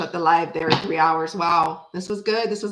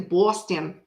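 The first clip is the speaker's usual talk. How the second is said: Boston said lower with a rounded "aw" vowel; imitated Boston accent; 3 semitones lower than usual. Shown as a demonstration. Greeting a Boston viewer by town, imitated Boston accent. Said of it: "I love their accent".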